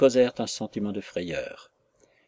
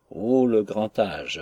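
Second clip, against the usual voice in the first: slow, fond "Oh, le grand âge!" with a louder opening; tender compassion; 5 dB louder, slower than usual. Acted. Guardian gently teases the little girl about her age, slow and fond. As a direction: tease her fondly and sadly at once. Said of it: "la tendre compassion ... l'enjouement se mêlait à la tristesse".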